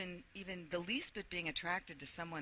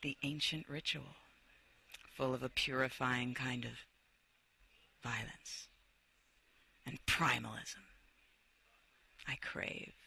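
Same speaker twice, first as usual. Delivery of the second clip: dramatic reading. Acted. Reads dramatic passage aloud.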